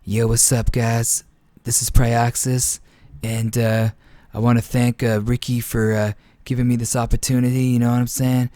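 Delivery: a hint of a laid-back gamer voice, barely changed; lightly imitating a chill pro player thanking fans; Prioxis impersonation. Caster imitates Prioxis greeting the viewers, lightly voiced. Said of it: "So here's my Prioxis impersonation".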